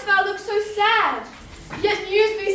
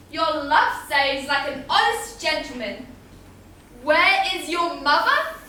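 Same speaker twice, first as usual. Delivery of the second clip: mocking echo; 3 semitones lower than usual. Juliet mockingly echoes the nurse's words.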